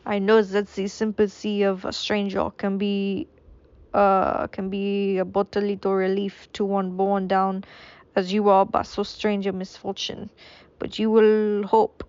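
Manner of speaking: a hint of a French accent, kept loosely; lightly voiced French gentleman consoling the prisoner. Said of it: "this is French anymore".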